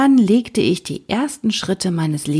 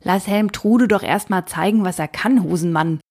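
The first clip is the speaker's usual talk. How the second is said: slow deep simple brute. Acted. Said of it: "brummte der Riese".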